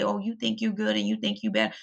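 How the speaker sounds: a lightly voiced, sneering know-it-all; mocking critics. Vlogger imitating her critics, mildly scornful. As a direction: mimic the people who judge her, dismissively. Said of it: "they'll say".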